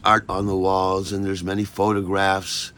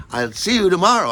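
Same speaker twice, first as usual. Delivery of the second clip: Maggie's voice, imitated; 10 semitones higher, 6 dB louder, faster than usual. Maggie saying goodbye at door.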